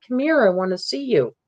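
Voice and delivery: retold coaxing, as to a shy animal; calm coaxing. Camper luring the creature closer, calm and coaxing. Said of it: "I just said real calmly".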